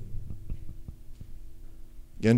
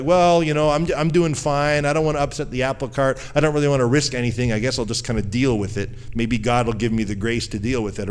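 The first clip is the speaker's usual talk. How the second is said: mock complacent excuse. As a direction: play the lazy believer content to get by. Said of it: "a lot of people would be like".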